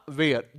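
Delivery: "वेयर" without any h, falling in pitch; silent h in where. Shown as a demonstration. Teacher answering his own transcription question, where said with silent h. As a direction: answer with a low, separate "वेयर", h left out. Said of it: "इसका phonetic transcription क्या होगा?".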